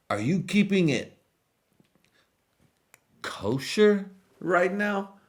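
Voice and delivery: high, loud hammed-up king barking questions; mock king yelling. Spanish king interrogating his cook, high loud mock yell. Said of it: "He was like".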